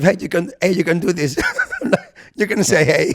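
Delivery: laughing through a mock pep talk; mock supportive, laughing. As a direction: cheer him on while cracking up. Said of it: "trying to be super supportive".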